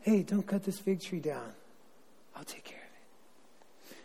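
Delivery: soft, almost whispered plea; hushed plea. Retold or imitated. Vineyard keeper softly begging the landowner to spare the tree, hushed. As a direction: ask gently under your breath to spare it.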